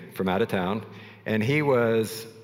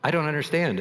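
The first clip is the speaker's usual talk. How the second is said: confused; 7 semitones higher, faster than usual. Retold or imitated. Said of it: "And she's like".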